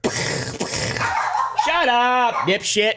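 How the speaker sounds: high put-on tough-guy sneer; mock Seagal voice. Vlogger parodying Seagal insulting a suspect, mock high voice. Mocking Seagal during drug bust.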